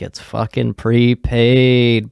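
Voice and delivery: drawn-out stress on prepaid; imitating an exasperated customer, dragging the words; exasperated retort. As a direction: stretch out PREPAID as a retold complaint. Retold customer's exasperated reply.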